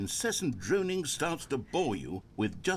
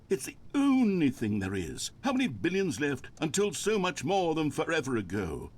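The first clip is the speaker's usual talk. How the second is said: droning monologue; 2 semitones higher than usual. Pretend. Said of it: "pretend that I've just begun an interminable monologue".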